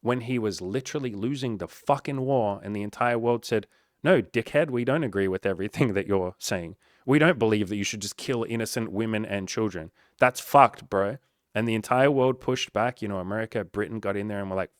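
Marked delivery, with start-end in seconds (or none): 4.0-11.2 loud, scornful retort; a loud jeering no; mock telling-off. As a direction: shout the world's rebuke at him. The world mockingly told Hitler off.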